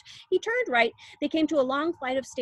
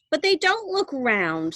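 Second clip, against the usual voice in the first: put-on higher, louder spoilt girl; Veruca; 5 semitones higher, 5 dB louder than usual. A narrator's reading. Veruca Salt contradicting Wonka, spoilt and loud. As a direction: insist like a bratty child. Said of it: "said Veruca Salt".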